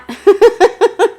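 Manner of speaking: sudden high burst of laughter; loud laugh. Real, not acted. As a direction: laugh it off, amused. Laughs at viewer's self-doubt.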